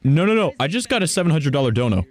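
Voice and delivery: high, stammering shock; flustered and floored by a huge surprise gift; stunned disbelief. Real, not acted. Stunned by a large donation live.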